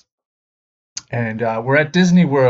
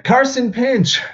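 name called out high; roll call; 13 semitones higher, 3 dB louder, slower than usual. Retold or imitated. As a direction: announce each student's name. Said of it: "So it's like".

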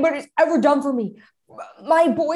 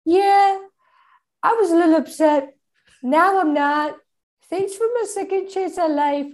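put-on girly voice; 3 semitones higher than usual. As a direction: chirp like a ghost girl. Plays babysitter girl voice.

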